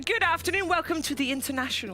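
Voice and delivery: posh British announcer. Acted. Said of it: "Ooh, that sounds very posh".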